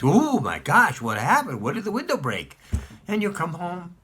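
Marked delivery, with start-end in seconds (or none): 0.0-2.6 hammed-up mock surprise, louder on the first words; faked surprise. The child fakes shock to his father about the window. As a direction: play the innocent child pretending to be shocked. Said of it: "and I'll act surprised".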